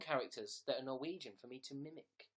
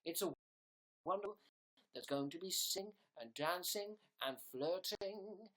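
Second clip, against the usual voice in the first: show host voice; 5 semitones higher than usual. Pretend. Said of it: "sing an intro song".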